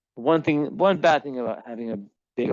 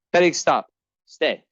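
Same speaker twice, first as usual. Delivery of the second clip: high, loud sharp command; commanding cat; 4 semitones higher, 6 dB louder than usual. Real, not acted. Owner ordering Felix to stay, loud high command. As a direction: stop the cat in its tracks.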